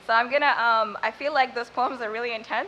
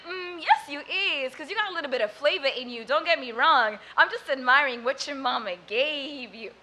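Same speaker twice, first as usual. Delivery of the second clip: street man voice; 3 dB louder than usual. Retold or imitated. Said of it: "He said".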